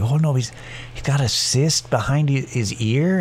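lightly mocking Fargo accent; a hint of Upper Midwest accent; Fargo-style accent. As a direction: imitate a worried dog owner with a Fargo accent. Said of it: "imagine them having an accent".

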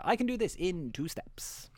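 slow smug whisper; hushed confident whisper. Real, not acted. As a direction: whisper it like a secret boast. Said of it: "whispered boast".

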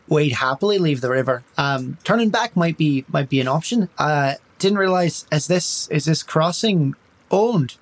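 a hint of Irish, feeling out the guards; Irish accent. Tiri speaks in character.

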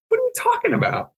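high, squeaky protest; mock indignation. To his buddy confirming the nickname, mock indignant. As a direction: play it offended and baffled.

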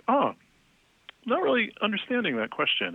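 high, light mock-polite voice; a mock dainty apology; overly polite interviewee. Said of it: "they're like".

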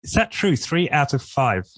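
surprised. Real, not acted. Stunned by statistic.

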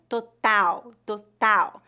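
"total" as to-TAU, firm T, open A, and the final L like U; Portuguese pronunciation. Shown as a demonstration. Teacher models the Portuguese word for learners to repeat, firm Portuguese T. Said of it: "a letra A tem uma pronúncia bem aberta".

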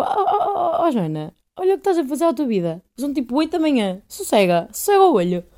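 a laughing mock scold to herself at dawn; mock self-scolding. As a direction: tell yourself off half laughing. Scolding herself while crying and laughing.

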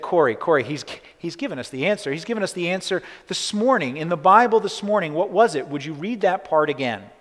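light up as the answer hits you; excited discovery. Retold or imitated. Sister urging Corrie to reread the Bible, excited.

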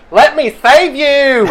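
high, slow, laughing mock cry; the GM imitates the preacher rushing to save people, high, slow and laughing. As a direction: ham up the do-gooder's cry. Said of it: "this one guy going".

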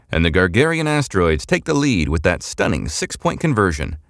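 brisk play-by-play announcer voice; sports commentator. A narrator's reading. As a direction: call it like a live broadcast. Sports announcer on vid screen.

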